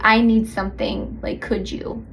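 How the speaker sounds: tender request trailing to a hush; gently ask, almost whispering; soft asking. Shown as a demonstration. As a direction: vulnerable request.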